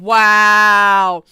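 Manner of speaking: a big, loud wow; loud stunned wow. Real, not acted. Streamer reacting to the clip with a loud stunned wow.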